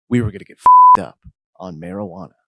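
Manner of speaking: hyped declaration. A narrator's reading. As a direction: declare the party plan high and loud. Celebration line, repeated for comic emphasis.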